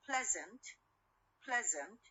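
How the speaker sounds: "pleasant" with the stress on PLEA; stress on first syllable. Shown as a demonstration. Teacher demonstrating word stress to students, PLEA stressed in "pleasant". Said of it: "the stress on the first syllable".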